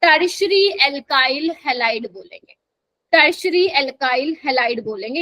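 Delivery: टर्शरी alkyl halide spelled out slowly; teacher hammering a term home, slowly; slow emphasis. Shown as a demonstration. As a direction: drill the term at dictation pace. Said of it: "ये आपको ध्यान रखना है".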